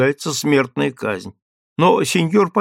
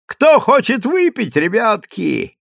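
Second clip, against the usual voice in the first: higher, calling, drawn out; mock call out; 7 semitones higher, slower than usual. Sutler woman imitates calling to soldiers under fire. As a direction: hawk drinks to soldiers.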